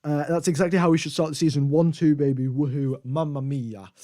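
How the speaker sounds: attempted Italian accent, quoting a radio message; lightly put-on Italian accent. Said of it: "that was my best Italian accent".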